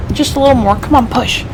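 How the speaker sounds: high, pushing hard against a door; effortful urging; straining effort. Acted. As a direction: grunt it out mid-push. Forcing a jammed door.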